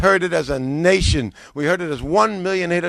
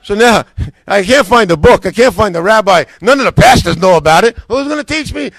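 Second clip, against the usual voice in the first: laughing exasperation; 4 semitones higher, 10 dB louder than usual. Real, not acted.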